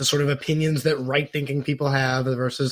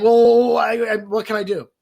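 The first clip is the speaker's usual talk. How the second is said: mock flustered ally; 6 semitones higher, 5 dB louder than usual. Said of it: "And you're like".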